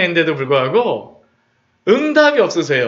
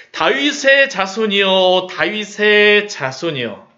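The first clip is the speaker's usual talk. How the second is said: slow, drawn-out desperate plea; slower than usual. Acted. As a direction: plead as if your life depends on it. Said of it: "결사적이죠". (결사적으로 느리게 부르짖듯)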